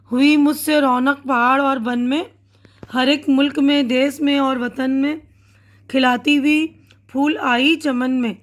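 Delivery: put-on measured, lilting recital of a children's poem; teacher reciting a poem to young pupils; poem recitation. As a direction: read the verse aloud to a class, with rhythm.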